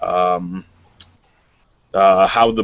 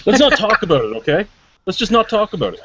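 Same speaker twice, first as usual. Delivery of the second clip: pleading embarrassment; 11 semitones higher, 4 dB louder than usual. Real, not acted. Embarrassed, begging to drop topic.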